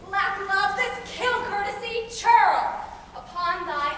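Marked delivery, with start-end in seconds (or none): 0.1-2.8 spat out loud and high; a sudden contemptuous jab; scornful insult. Acted. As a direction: spit the insult at him. Puck insulting Lysander.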